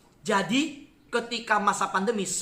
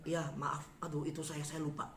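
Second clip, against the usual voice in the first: much softer, retold guilty apology; small, hushed mock-contrite voice; sheepish apology; 3 semitones lower, 11 dB quieter than usual. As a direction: apologise meekly under your voice, imitating yourself caught out.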